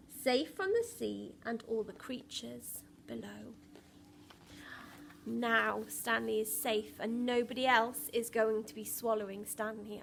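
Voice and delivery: put-on lively read-aloud for young children; storybook reading voice; story narration. A narrator's reading. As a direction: tell the story to a class, bright and rhythmic. Reads picture book aloud.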